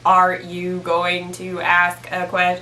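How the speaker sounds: slow, even robotic monotone; slow mock robot, every word on one note; monotone computer voice. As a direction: imitate a computer reading word by word. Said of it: "it's just the most monotone".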